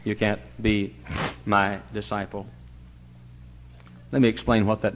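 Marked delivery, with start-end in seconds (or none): 0.0-2.5 quiet solemn warning. Acted. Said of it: "Then he said again".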